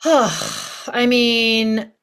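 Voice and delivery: heavy doubtful sigh into speech; exasperated sigh. Acted. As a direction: heave a weary, put-on sigh. Acting the worried physical body.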